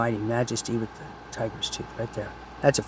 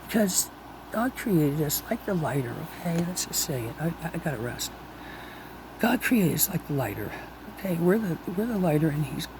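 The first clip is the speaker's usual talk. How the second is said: patient explaining; 2 semitones higher, 6 dB quieter than usual. Retold or imitated. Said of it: "So I said".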